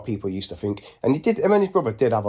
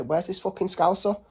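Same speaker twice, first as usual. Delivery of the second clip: mock confrontation; 9 semitones higher, 3 dB quieter than usual. Acting out confrontation at dinner unlock.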